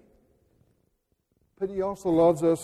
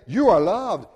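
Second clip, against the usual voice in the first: flat, impersonal declaration; distant passive phrasing; 5 dB louder than usual. Retold or imitated. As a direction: say it like a detached announcement. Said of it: "He doesn't just say".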